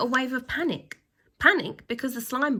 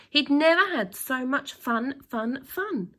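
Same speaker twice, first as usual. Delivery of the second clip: excited; 5 semitones higher, 5 dB louder than usual. A narrator's reading. Boy's joy on the slide.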